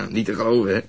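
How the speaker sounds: chuckling through the words; amused disbelief, laughing. Real, not acted. Laughing at the nosy woman.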